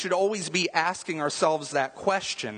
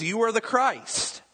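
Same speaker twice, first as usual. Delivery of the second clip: slower and higher, a bold confession; proclaiming; 7 semitones higher than usual. Retold or imitated. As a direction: Peter declaring it with conviction. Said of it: "He says".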